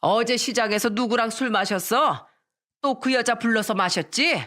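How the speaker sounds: mildly angry jealous wife; understated mock yelling; shouted accusation. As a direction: interrogate a husband crossly. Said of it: "시부한테 소리치며 말했습니다".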